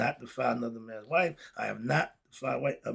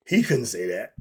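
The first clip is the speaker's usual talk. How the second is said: louder, with a rising tune on "He couldn't say that"; emphatic; 4 semitones lower, 8 dB louder than usual. Shown as a demonstration. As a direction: push it out with force, ending upward. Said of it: "See the difference?".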